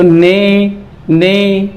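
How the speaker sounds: "ने" drawn out on the long e; n blended into a long e in "ने"; sounding out syllable. Shown as a demonstration. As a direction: stretch "ने" slowly as a reading demo. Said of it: "न के बाद में ए है".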